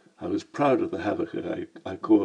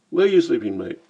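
Cockney voice; 3 semitones higher, 5 dB louder than usual. Acted. Lamb asks, Cockney voice.

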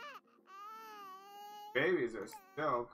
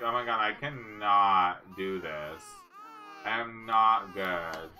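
mock despair; 4 dB louder, slower than usual. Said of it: "She's like".

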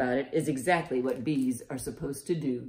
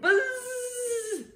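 very high, sustained buzzing squeal; bee buzz. Pretend. Teacher as bees flying out to tickle children, high playful buzz. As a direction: hold a long high-pitched buzz.

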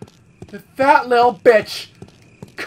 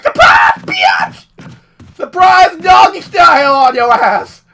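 mock jump-scare yell; 4 semitones higher, 5 dB louder than usual. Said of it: "It was like".

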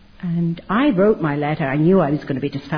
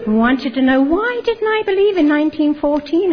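higher, laughing through the question; 9 semitones higher, 4 dB louder than usual. Real, not acted. Woman recalling three brothers visiting her, laughing. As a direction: let a laugh carry the whole line.

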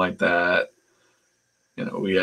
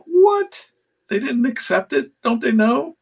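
incredulous high-pitched faux hillbilly; Robert Kirkman. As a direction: imitate a fake hillbilly who can't believe the news. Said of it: "a pretty good Kirkman that I'm doing".

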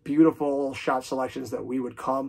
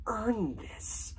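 much higher, faint, strained last words; dying whisper; 10 semitones higher, 7 dB quieter than usual. Retold or imitated. Dying captain tells young soldier his last words, faint and strained. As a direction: breathe it out like a dying man.

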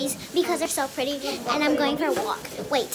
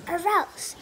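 mock pre-cry; slower than usual. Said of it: "I'm gonna cry".

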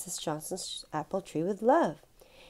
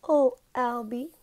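sobbed; 5 semitones higher, 4 dB louder than usual. Acted. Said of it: "Missus Johnson sobbed".

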